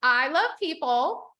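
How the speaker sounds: slow, rising affirmation for the group; affirmation lead. Shown as a demonstration. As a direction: draw it out for them to repeat. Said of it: "let's say this one".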